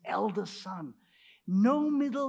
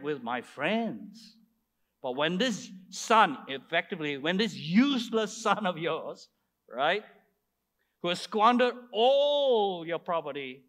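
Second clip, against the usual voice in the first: louder, aggrieved protest; angry grievance; 3 dB louder than usual. Acted. Elder son railing at his father over the goat, aggrieved. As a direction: build the resentment up, then let it drop.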